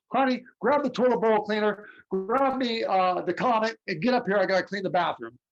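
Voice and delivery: tossing off chores like it's nothing; breezy mom. Retold or imitated. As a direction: mom shrugging off the ghost talk. Mother answers casually about ghost.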